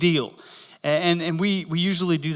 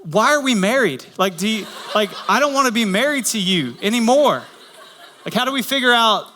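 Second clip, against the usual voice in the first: mock exasperation; 5 semitones higher than usual. Acted marital outburst at drive-thru.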